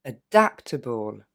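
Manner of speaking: Adaptable said slowly, able unstressed; slow model word. Shown as a demonstration. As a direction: stretch adaptable, weak final syllable. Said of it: "Et en une fois". (Adaptable lentement, fin non accentuée)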